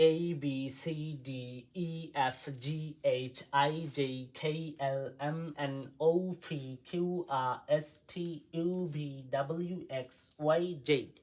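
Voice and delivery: alphabet run together without pauses; in one breath. Shown as a demonstration. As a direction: rattle off the letters on a single breath. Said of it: "এক নিঃশ্বাসে". (এক নিঃশ্বাসে, না থেমে)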